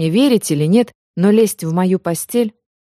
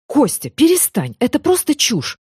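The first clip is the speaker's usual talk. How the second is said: annoyed protest, pitch rising higher; angry; 6 semitones higher than usual. A narrator's reading. Woman angrily tells her lover to drop the nonsense. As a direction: cut him off, irritated. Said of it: "разозлилась я".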